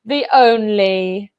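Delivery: drawn-out showy build-up to the name; announcer introduction. Pretend. Host introducing a favourite panellist, showy announcer build-up. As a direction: announce the guest slowly with a big finish.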